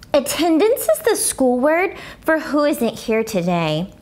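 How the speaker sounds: lightly voiced chatty first grader; a hint of a small girl's voice; Junie B journal voice. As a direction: read it like a little girl writing her diary. Junie B reads her journal.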